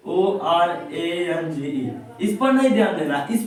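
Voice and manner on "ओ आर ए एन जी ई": slow spelling out. Shown as a demonstration. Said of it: "इस पर ध्यान नहीं देना है".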